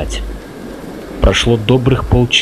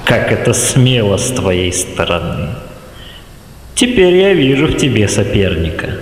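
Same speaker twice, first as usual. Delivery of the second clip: respectful villain. Acted. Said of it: "восторженный тон уважения к сопернику".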